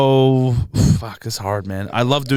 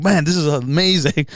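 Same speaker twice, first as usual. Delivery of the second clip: put-on Nigerian accent; 4 semitones higher than usual. Acting out his Nigerian accent.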